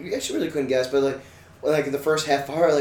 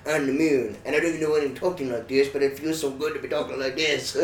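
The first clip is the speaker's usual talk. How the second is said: Mulder and Cartman voice; 2 semitones lower than usual. Pretend. Mulder explaining his move to the moon, lightly put-on voice. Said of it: "a mix between Agent Mulder and Cartman".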